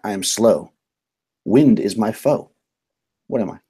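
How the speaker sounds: slow, measured riddle reading; deliberate pauses between riddle lines; riddle recitation. Acted. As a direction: pose the riddle slowly, line by line. Recites a riddle as game master.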